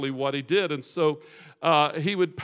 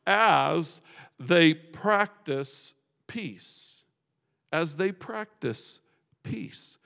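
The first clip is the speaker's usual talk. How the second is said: slow emphatic repeat; much slower than usual. Real, not acted. Preacher quotes writer to congregation, slow and hushed. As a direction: let each word land, pausing before the last.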